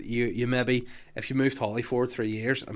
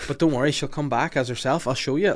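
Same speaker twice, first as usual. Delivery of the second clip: lightly voiced innocent girl, pitched higher; innocent child; 4 semitones higher, 6 dB louder than usual. Retelling Lizzie promising her sister returns, innocently. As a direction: sound eagerly sure, like a child. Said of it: "all innocently".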